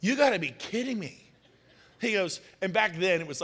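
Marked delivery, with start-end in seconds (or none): 0.0-1.2 high-pitched, laughing mock incredulity; imitating laughing disbelief. Client laughing at the agent's broken-down car, laughing disbelief. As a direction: act out someone laughing at you in disbelief. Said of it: "He laughed in my face".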